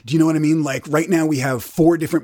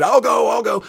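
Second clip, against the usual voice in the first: eager volunteering; 5 semitones higher than usual. Retold or imitated. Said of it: "so I said".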